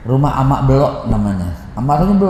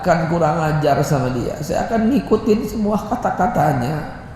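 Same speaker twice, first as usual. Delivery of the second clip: tearful vow; 4 semitones higher, 3 dB quieter than usual. Retold or imitated. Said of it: "saya nangis".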